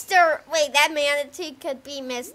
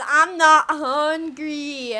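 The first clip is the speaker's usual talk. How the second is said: voiced Pokemon; 5 dB louder than usual. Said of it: "He says".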